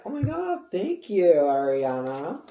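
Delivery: high squeal then loud thank you; high starstruck gratitude, drawn out at the end; excited thanks. Retold or imitated. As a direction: gush thanks to a star. A singer hands over chihuahua.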